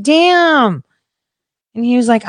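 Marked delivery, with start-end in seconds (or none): 0.0-0.8 long, high, drawn-out wow; like a catcall, held high; impressed exclamation. Retold or imitated. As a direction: stretch it out in exaggerated admiration. Repeats the admiring exclamation.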